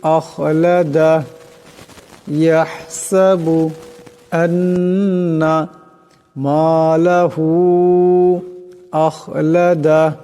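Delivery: slow melodic tajweed chant, drawn-out vowels; measured, melodic Quranic recitation. Shown as a demonstration. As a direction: recite it slowly as a tajweed lesson. Teacher recites the verses after explaining.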